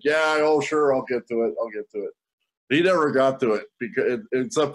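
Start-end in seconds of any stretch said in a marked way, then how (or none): 0.0-1.5 casual promise to the wife; breezy brush-off. Retold or imitated. Husband brushing off wife's nagging, breezy. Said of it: "Pardeep's like". 1.6-2.1 softer, lower trailing repeat; fading mumble. Retold or imitated. Husband brushing off wife, mumbled into nothing. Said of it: "Pardeep's like".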